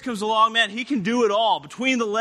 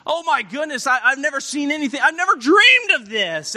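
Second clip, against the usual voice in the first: raised-pitch, stammering amazement; astonished; 3 semitones higher, 3 dB louder than usual. Acted. James and John seeing all the fish, astonished. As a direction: gasp it out, taken aback. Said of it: "He was so taken back".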